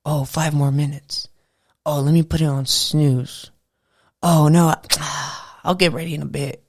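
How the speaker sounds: mildly sluggish, putting things off; a hint of a reluctant riser bargaining for time; lazy little voice. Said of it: "that lazy little voice that tells you".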